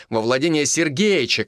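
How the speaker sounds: ordinary delivery, nothing marked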